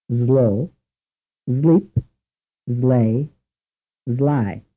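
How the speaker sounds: "Slow", "sleep", "slay", "sly" all begun with a voiced z, "zlow", "zleep"; Italian-accented English. Shown as a demonstration. Teacher repeats the Italian learner's "sleep" with z for s. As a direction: turn the s of "sleep" into a buzzing z. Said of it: "Listen again".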